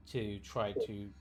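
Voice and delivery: normal talking voice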